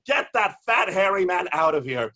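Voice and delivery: high, loud command; mock angry mayor. Mayor Breed ordering the poet removed, mock angry. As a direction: order him out. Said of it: "Mayor Breed was like".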